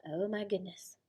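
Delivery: whispered dismay; soft whispered oh my goodness. Real, not acted. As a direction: breathe it out as a shocked whisper. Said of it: "teacher reacts".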